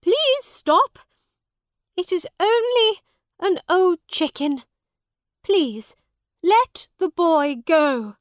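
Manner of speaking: high, loud woman's plea; pleading shout. A narrator's reading. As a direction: cry out to the judge for mercy. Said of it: "she shouted to the judge".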